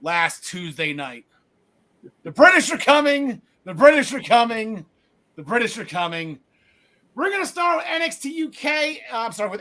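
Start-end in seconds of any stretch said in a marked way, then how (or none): 2.2-4.9 loud mock town-crier warning, lightly voiced; Paul Revere cry. Host mimicking Paul Revere warning co-host Gary, loud mock cry. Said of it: "was reminded of Paul Revere". 5.3-6.4 Paul Revere fading. Retold or imitated. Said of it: "was reminded of Paul Revere".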